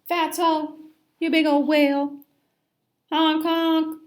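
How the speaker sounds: high, loud jeering fish; loud goofy honking taunt; mocking joke. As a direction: ham up the whale teasing.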